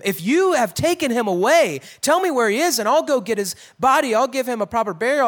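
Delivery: mildly accusing the gardener of taking the body. Retold or imitated. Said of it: "almost like maybe she's even accusing him".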